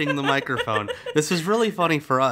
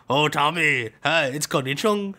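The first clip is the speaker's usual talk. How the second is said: sister as Connie Chung. Retold or imitated. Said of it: "prank call the house as Connie Chung".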